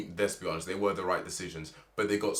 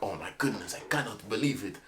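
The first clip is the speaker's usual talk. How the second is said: Sergio Perez imitation. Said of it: "that's my Sergio Perez imitation".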